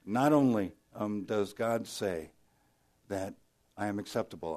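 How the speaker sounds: usual speaking voice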